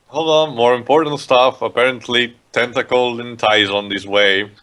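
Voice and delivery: flat, low-key announcement of urgent news; unurgent. Acted. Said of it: "It was so unurgent".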